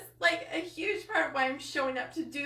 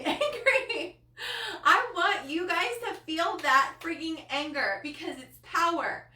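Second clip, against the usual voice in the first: righteous anger; 5 semitones higher than usual. Real, not acted. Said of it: "it fuels me with a righteous anger".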